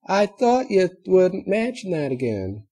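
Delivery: put-on high sulky little girl voice; young filly whine. A narrator's reading. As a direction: pout it out like a hurt kid. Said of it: "the yellow pony whined".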